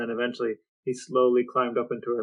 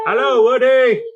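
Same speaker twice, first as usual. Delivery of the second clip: much higher and louder happy hello; excited greeting; 10 semitones higher, 10 dB louder than usual. Real, not acted. Owner greeting her dog Woody arriving, loud excited hello.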